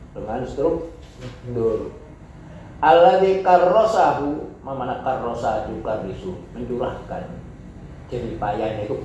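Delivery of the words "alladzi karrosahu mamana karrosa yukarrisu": Arabic text reading. Acted. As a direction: recite the Arabic phrase formally. Reads Arabic text aloud. (membaca kutipan Arab)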